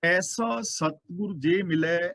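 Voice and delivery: slow, measured chanting of the verse; slow scripture recitation. Acted. Preacher reciting a verse to the congregation, slow and measured. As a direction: lay out each word of the holy line, unhurried. ਅਗਲਾ ਬਚਨ ਕਰਦੇ ਨੇ.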